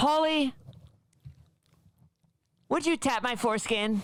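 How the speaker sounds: voice going way up into a very high put-on girl voice. Asked by friends to do a girl voice, doing it on the spot. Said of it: "Girl voice".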